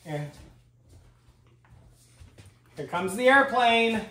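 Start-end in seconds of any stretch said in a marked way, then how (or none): 2.8-4.0 airplane spoon game. Pretend. Feeding game with child.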